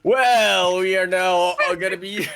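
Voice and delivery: excited. Real, not acted. Hyped intro start.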